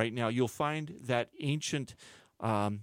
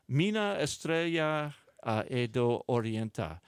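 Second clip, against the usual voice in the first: Portuguese read with a bad California Spanish accent; clumsy attempt at a Portuguese title in a Californian Spanish accent. Real, not acted. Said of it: "like reading Portuguese with a bad California Spanish accent".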